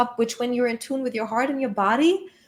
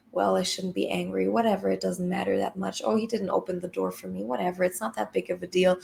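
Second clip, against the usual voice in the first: dismissive inner voice; 4 semitones lower, 5 dB quieter than usual. Retold or imitated. Acting out suppressing inner voice.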